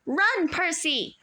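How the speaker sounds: slow, loud high cry; urgent shout. A narrator's reading. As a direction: send Percy running. Annabeth shouting.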